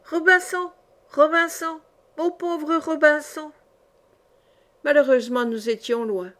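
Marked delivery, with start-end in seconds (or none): 0.1-3.5 high, plaintive parrot call, slowing; parrot crying out. A narrator's reading. Parrot left by the anchor calls its owner, crying out. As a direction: squawk it high, stretch out the last phrase. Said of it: "en criant de toutes ses forces".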